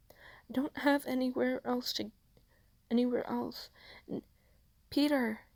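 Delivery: high, breaking grief; lost, reaching for Peter; distraught. Acted. May refusing to leave, high broken grief.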